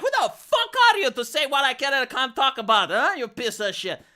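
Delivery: aggressive retort. Retold or imitated. Imagined Romanian retort, aggressive.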